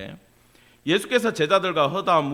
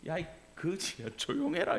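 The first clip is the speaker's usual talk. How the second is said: scolding crowd; 9 dB quieter than usual. Acted. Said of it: "많은 사람이".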